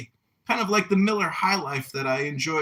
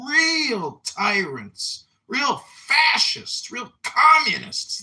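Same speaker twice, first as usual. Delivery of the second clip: shout; 5 semitones higher, slower than usual. Real, not acted. Ranting shout about tyrants.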